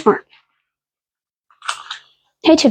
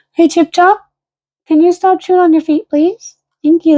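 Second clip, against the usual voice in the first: pet voice; 5 semitones higher than usual. Real, not acted. Talking to chewing dog.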